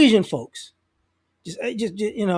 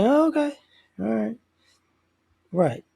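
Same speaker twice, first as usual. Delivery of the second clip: fake agreement; 5 dB quieter than usual. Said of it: "I'm looking like".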